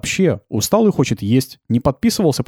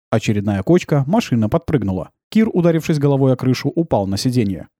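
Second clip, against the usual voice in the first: ordinary delivery, nothing marked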